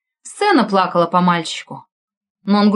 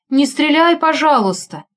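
higher, louder mock pleading; fake frightened plea; 7 semitones higher, 3 dB louder than usual. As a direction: pretend to be scared, begging. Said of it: "испугался я".

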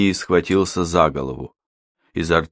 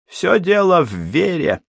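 smirking villain; 11 semitones higher than usual. Acted. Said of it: "Он усмехнулся".

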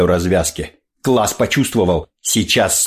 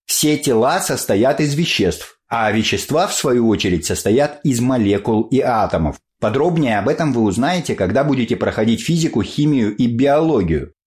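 higher, sing-song classroom explaining; lecturing teacher; 3 semitones higher than usual. Acted. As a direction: lecture like a strict biology teacher. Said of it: "объясняла".

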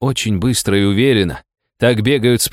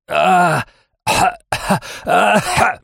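high yelps of pain; a string of high pained yelps; pained cries; 10 semitones higher, much slower than usual. Acted. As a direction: cry out as if ribs are cracked. Narrator hit, cries out in pain.

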